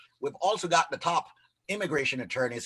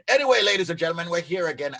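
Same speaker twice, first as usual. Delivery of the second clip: fast energetic announcer; upbeat host; 4 semitones higher, 5 dB louder, faster than usual. Real, not acted. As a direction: pump up the audience. Radio host relaunch.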